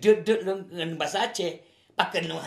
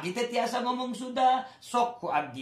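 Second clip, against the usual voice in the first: higher, sing-song Sundanese lilt; Sundanese accent; 7 semitones higher than usual. Shown as a demonstration. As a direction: show off a Sundanese accent with a rising tune. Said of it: "Saya tahu bahasa Sunda".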